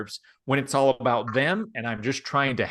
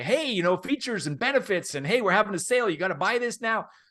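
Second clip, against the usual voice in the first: over-eager, excited, high-pitched salesman voice; 8 semitones higher than usual. Advising listeners to talk lower, speaker mimics salespeople: excited high-pitched salesperson voice. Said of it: "they go high pitched".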